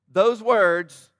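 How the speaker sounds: loud, punched emphasis on Those words; over-eager loud pastor emphasis; very enthusiastic. Real, not acted. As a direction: throw Those words out with big energy. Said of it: "that was very enthusiastic".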